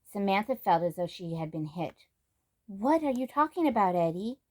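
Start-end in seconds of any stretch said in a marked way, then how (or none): 2.7-4.4 sharp, higher upset question; shocked. Acted. Samantha shocked by Eddie's news, sharp upset question. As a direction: demand an answer, stung.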